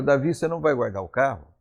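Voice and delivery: mild, unpressured question to a husband; gentle wifely question. Retold or imitated. Wife asks David about the car left outside, gently. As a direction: ask it gently, without pushing. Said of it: "A entonação de voz já é diferente".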